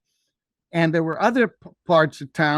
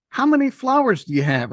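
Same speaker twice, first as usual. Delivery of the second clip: pitched up into the lady's voice; lady asking; 7 semitones higher than usual. Retold or imitated. The lady in the car asking the boy about his flowers, higher voice. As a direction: ask it as the curious lady in the car.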